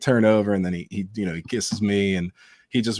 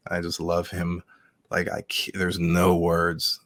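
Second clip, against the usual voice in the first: choked up; slower than usual. Real, not acted. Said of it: "I get emotional thinking about him".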